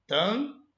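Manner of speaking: "Tam" alone with a nasal A; pronunciation demo. Shown as a demonstration. Teacher sounding out também for students, pronunciation demo. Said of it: "vê se não é mais ou menos assim".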